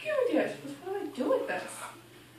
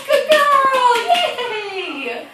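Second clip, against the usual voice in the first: excited dog praise; 5 dB louder than usual. Real, not acted. Praising puppy after fetch.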